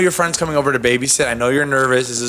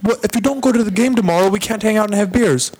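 high, squeaky mock European accent; a bad imitation of a European accent, much higher; 9 semitones higher than usual. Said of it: "who has an accent".

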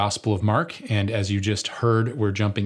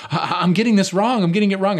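retold panic; 10 semitones higher, 4 dB louder than usual. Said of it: "panicked or whatever".

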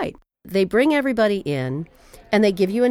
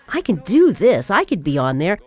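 mother's ambition; 5 dB louder than usual. Retold or imitated. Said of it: "her way of going".

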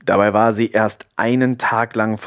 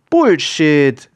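loud, higher outburst; exclaimed disbelief; 6 semitones higher, 6 dB louder than usual. A narrator's reading. Friend rejects the claim about moon-praying elephants, exclaiming. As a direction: call it out in sharp disbelief. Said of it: "rief Sophia".

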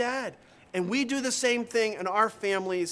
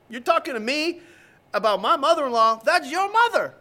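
indignant husband; 5 semitones higher, 5 dB louder than usual. Retold or imitated. Husband retorts in retold quarrel.

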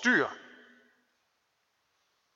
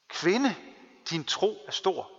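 tender. Retold or imitated. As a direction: speak it tenderly, as a blessing. Preacher voices Jesus gently.

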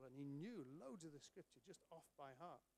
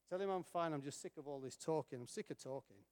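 fed-up outburst; 8 dB louder than usual. Retold or imitated. Fed-up lad finally speaks out.

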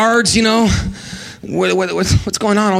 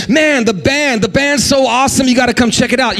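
higher, excited invitation; excited churchgoer; 4 semitones higher than usual. Acted. Preacher acting an eager member inviting a friend, excited. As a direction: sell the band like you can't wait.

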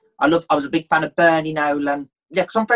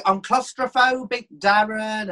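1 Gemma Collins; 6 semitones higher, slower than usual. Retold or imitated.

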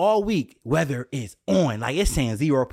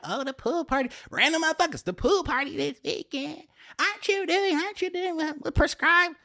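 much higher, gushing stranger; excited fan voice; 13 semitones higher than usual. Retold or imitated. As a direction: squeal it like a fan who spotted you. Voicing strangers at the stores.

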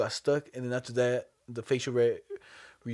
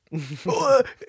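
mock gasp; 3 semitones higher, 5 dB louder than usual. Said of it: "and you're like".

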